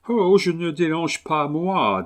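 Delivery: put-on an excited English gentleman warning the host, thick English accent; strong English accent. A narrator's reading. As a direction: fort accent anglais. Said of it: "avec un accent anglais fortement prononcé".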